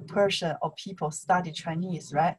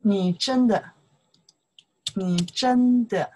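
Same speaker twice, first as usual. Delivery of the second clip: slow model; 5 dB louder than usual. Shown as a demonstration.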